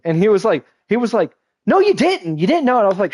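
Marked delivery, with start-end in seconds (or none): 1.7-2.8 high-pitched mock protest; retold indignant denial. Brother insisting his sibling didn't know, mock high-pitched denial. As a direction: blurt it out in squeaky disbelief.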